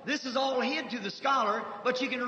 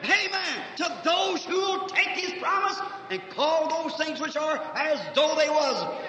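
fiery exhortation. Real, not acted. Preacher builds to exhortation.

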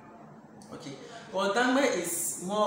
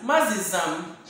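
"Mazizam" drawn out slowly; slow demo; slower than usual. Shown as a demonstration. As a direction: stretch "Mazizam" so learners hear it. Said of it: "You can say Mazizam".

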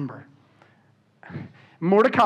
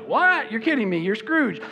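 mock disbelief; 4 semitones higher than usual. Acting stunned Bob's reaction.

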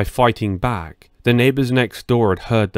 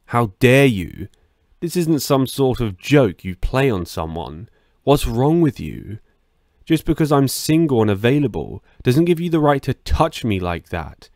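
mild acted shout; 2 semitones higher than usual. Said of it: "I shouted".

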